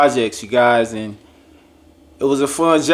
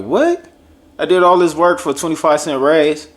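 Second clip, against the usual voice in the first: shocked high "What?", then an indignant complaint; can't believe the raise is that small; outraged disbelief; 4 semitones higher than usual. Retold or imitated. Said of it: "And I'm like".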